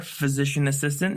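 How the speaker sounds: "physician assistant" with no S after "physician"; correct job title. Shown as a demonstration. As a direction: say "physician assistant", leaving no possessive S. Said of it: "There's no S".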